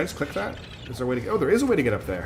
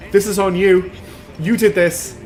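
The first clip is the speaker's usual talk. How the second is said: put-on upset child; 6 semitones higher, 5 dB louder, slower than usual. Child blaming, higher and louder.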